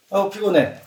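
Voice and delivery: tired hero. Acted. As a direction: sigh it out like a weary fighter. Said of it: "시작!".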